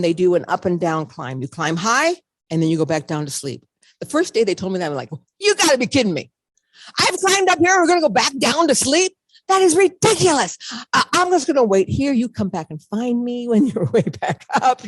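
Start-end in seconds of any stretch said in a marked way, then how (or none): 5.4-14.9 indignant disbelief. Retold or imitated. Told to descend to sleep.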